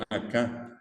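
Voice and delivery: "acá" stressed on its final vowel; stress on second A. Shown as a demonstration. Teacher shows students the final accent, second A of "acá" stressed. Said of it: "el acento está en la segunda A".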